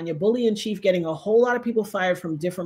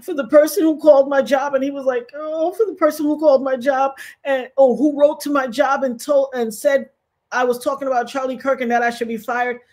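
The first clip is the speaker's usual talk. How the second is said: mock crying plea; 4 semitones higher than usual. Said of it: "a crying face".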